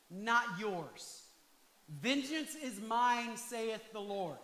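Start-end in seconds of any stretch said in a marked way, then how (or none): 1.9-4.4 slow, weighty scripture line; solemn quoting. Shown as a demonstration. Preacher quoting scripture to the congregation, slow and solemn. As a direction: let each word land slowly.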